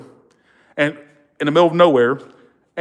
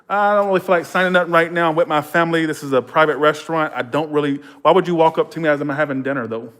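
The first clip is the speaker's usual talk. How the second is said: lightly played star brushing off a fan; pretend celebrity; 3 semitones higher than usual. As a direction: play at being a star bothered at dinner. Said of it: "act like I was this well-known person".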